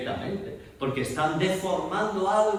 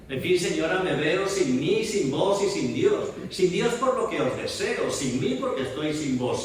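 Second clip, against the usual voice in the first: verse recitation; 3 semitones higher than usual. Shown as a demonstration. Teacher declaiming a classical verse speech for students. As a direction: recite the whole speech in one sustained breath. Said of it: "si yo digo".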